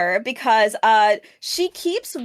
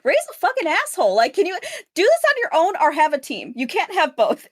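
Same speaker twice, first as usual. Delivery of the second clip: higher-pitched, exasperated scolding; exasperated telling-off; 5 semitones higher than usual. Acted. Podcaster venting at the movie's heroine, exasperated. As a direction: scold the character in rising frustration.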